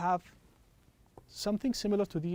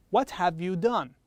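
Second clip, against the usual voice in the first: slower model question. Shown as a demonstration.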